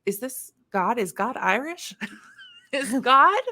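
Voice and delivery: rising, puzzled, half laughing; amused disbelief at an Irish God; mock bewildered wonder. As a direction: ask it like you can't believe it. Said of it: "I'd think".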